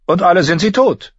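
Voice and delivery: high, loud sly courtier; Littlefinger voice. A narrator's reading. Littlefinger needling the old knight, high and loud. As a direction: lift into a sly mocking courtier.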